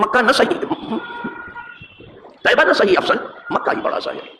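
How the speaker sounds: lifted, chanted couplet recital; reciting verse. Shown as a demonstration. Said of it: "ذرا سنیے".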